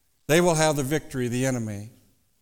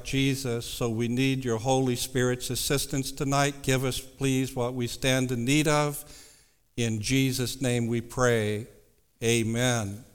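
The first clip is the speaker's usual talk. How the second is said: hushed and reverent; 3 semitones lower than usual. Acted. Leads prayer.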